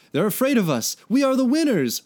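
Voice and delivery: loud, high, gloating triumph; triumphant. A narrator's reading. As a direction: crow it like you just won. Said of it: "one of the drunkards said triumphantly".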